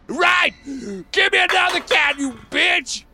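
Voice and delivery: put-on rowdy drunken yell; shouting. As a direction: bellow for another can. Shouting for another can.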